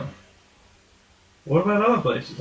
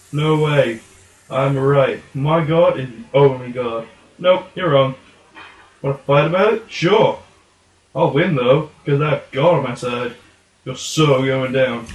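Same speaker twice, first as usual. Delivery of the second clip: loud squabbling puppet fight; goofy muffled sock puppet; 4 dB louder than usual. Acted. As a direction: shout it like a puppet brawl. Puppets argue, challenge to fight.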